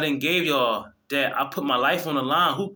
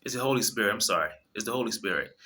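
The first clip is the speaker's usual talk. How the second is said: quiet, tearful voice, close to crying; fighting back tears, overcome; choked up, crying; 4 semitones lower, 5 dB quieter, faster than usual. Real, not acted. Speaking to viewers, overcome by emotion, tearful. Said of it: "I'm about to cry".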